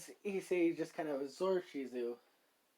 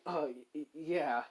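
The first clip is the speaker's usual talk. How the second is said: flustered, stammering yeah; bashful. Acted. Woman blushing at her awkward last request, bashful. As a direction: stumble shyly over the reply. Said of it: "kind of blushes a bit".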